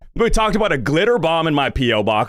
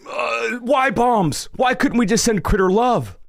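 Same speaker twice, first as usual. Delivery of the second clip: exasperated shout; 8 semitones higher, slower than usual. Real, not acted. Pleading with chat.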